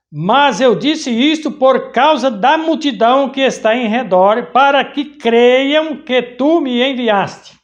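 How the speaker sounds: slow, stressing "multidão" and "tu"; slow emphatic reading. Shown as a demonstration. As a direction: drag it out so the point lands. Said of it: "presta atenção". (leitura lenta, destacando "multidão" e "tu")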